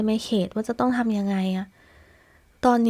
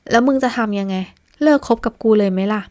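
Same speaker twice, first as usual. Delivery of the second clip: sarcastic jab; 4 dB louder than usual. Acted. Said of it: "ประชดด้วยคำนั้นออกมา".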